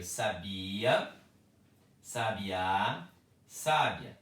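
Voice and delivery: sabia, sabiá, sábia each stressed on a different syllable; bi, then á, then sá. Shown as a demonstration. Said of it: "É diferente a pronúncia".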